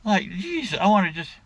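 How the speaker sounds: mock exasperation, voice lifting on each jeez; exasperated doctor. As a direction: act out a doctor barely holding back. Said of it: "see the look on his face".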